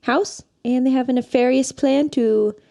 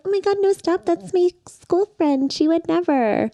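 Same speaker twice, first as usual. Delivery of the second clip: high, protesting voice, much higher than her own; Anita protesting; 7 semitones higher than usual. Retold or imitated. Anita defending her school friend, high protest. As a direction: defend her old friend, pitched up in disbelief. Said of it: "And Anita's like".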